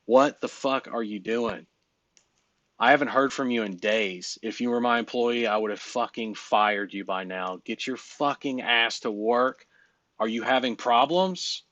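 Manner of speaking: slow, deliberate tough-love rant; mock chewing-out. Shown as a demonstration. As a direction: lay into him slowly, like a blunt boss. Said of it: "That's my toast".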